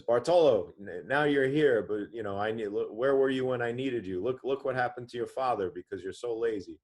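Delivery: mild mock of an injured dad's rebuke; scolding father. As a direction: scold the lazy son, hurt and upset. Injured father scolds his son.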